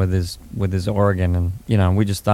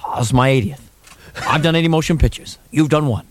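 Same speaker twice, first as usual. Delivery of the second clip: Burt Lancaster impression. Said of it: "He goes".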